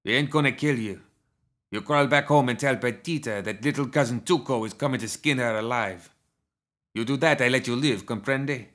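taunting outlaw giving orders; menacing gunslinger Tuco. Acted. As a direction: lay down a threat as a cocky gunman.

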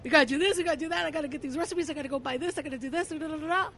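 energized retold pep talk, tumbling into da-da-da; rallying the staff. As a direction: rattle off tasks like an eager boss. Acting out rallying her staff.

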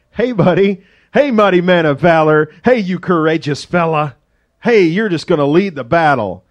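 teasing, hammed-up flattery; a buddy ribbing the guy hiding in a hole; mock sarcastic praise. Preacher voicing the angel as a heckler, mock cheery.

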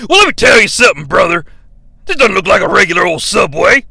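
lightly done Hulk Hogan voice. Acted.

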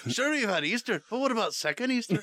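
high, playful pleading question; mock eager questioner. Co-host riffing on second Easter, high mock-eager voice. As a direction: pitch it up, mock-hopeful.

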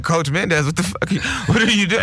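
high, incredulous what-the-fuck at the coach; shocked outcry. Retold or imitated. Students calling out their coach in shock. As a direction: call him out in disbelief. Teens confronting creepy coach.

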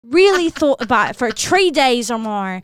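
chatty Irish accent. Shown as a demonstration. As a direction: tell it in an Irish lilt. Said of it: "do a little bit Irish".

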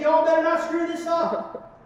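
Southern country accent, hammed up. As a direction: ham up Brett Favre's country accent. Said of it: "He's got that country accent".

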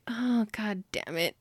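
slow, drawn-out resigned curse; mock weary annoyance at being cornered; grudging exasperation. Addie reacts to Luke calling her wife, begrudging and exasperated. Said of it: "She, like, begrudgingly plays into it".

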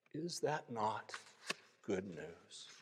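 slow, softly savored question; beaming conclusion. A narrator's reading. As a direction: land it gently, as glad news.

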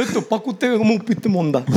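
mock rural Sonoran accent. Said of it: "de por allá hablan así".

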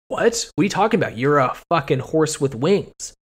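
mock bewildered disbelief; incredulous Barbie. Barbie answers the Pegasus claiming to be her sister, mock incredulous.

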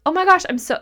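high, lightly gushing; mild gushing fan. Retold or imitated. A fan meeting someone, mild high gush. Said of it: "into like".

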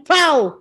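"¡pau!" de historieta; golpe de caricatura imitado. Retold or imitated. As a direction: imita un puñetazo con la boca. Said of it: "así como de caricatura". (onomatopeya caricaturesca de golpe)

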